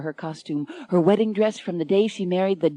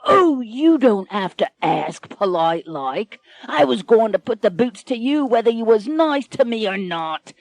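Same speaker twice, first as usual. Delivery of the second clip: mocking pirate captain; 3 semitones higher, 4 dB louder than usual. Pirate mocks lady's politeness.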